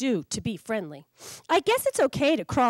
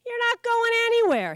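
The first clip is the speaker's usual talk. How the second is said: promising; 11 semitones higher, 4 dB louder than usual. Acted. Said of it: "he promises".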